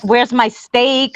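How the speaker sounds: slow, demanding ghost voice; demanding spirit. Retold or imitated. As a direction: drag out a grumpy spirit's order. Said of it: "the other one's like".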